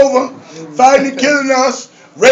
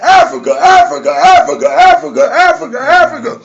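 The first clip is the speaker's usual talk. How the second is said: repeated hailing call; 3 semitones higher than usual. Retold or imitated. Re-enacting greeting everyone in club.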